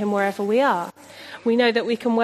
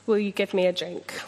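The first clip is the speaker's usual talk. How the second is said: soft, gentle ask, a little quieter; gentle, unthreatening; 3 semitones lower, 3 dB quieter than usual. Retold or imitated. Jesus gently asking the woman at the well for water, soft and unthreatening. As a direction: ask it kindly, no threat at all. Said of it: "something very unthreatening".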